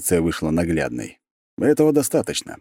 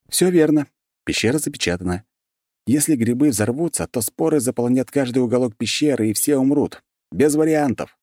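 booming; 7 semitones higher than usual. A narrator's reading. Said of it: "громогласно сказал я".

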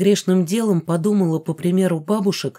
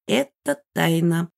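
haughty smirk; slower than usual. Acted. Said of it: "усмехнулась она со всем высокомерием".

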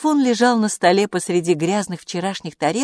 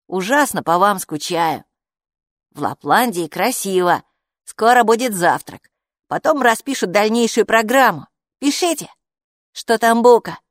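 louder reading-out of a message; reading letter aloud; 3 semitones higher, 5 dB louder than usual. Acted. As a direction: read the message out phrase by phrase. Капу прочёл.

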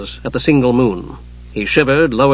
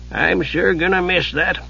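put-on slow, wistful old man's voice; sighing old wizard; 4 semitones higher, 4 dB quieter than usual. A narrator's reading. Old wizard thinks fondly of ale, wistfully. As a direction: regret it as an elderly eccentric. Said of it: "Sighing, he shook his head".

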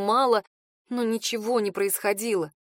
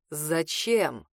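a lower voice, stunned and blank; dazed lower male voice; 6 semitones lower than usual. Acted. Dazed man asks again.

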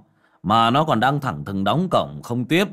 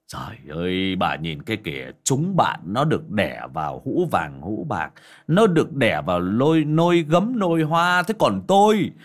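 building into a fast, higher sneering complaint; nagging reproach; 5 semitones higher than usual. Acted. Son berating his mother over his birth, sneering reproach. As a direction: whine and blame your mother, rising. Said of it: "lại tiếp tục cái giọng hạch sách".

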